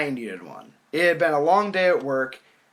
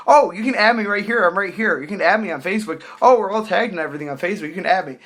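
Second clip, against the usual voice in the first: mimicked pestering; 3 semitones higher, 3 dB louder, faster than usual. Mimics girl pestering with her phone.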